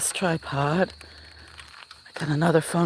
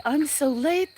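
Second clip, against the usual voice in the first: voicing the cat; 8 semitones higher, slower than usual.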